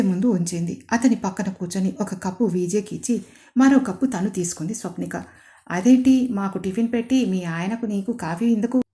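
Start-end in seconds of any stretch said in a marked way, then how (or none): 5.7-8.8 a lightly voiced sarcastic aunt; drawn-out taunt. Aunt needling the bride about serving only coffee. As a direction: stretch the words, mock-questioning. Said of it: "అని దీర్ఘం తీస్తూ అడిగింది".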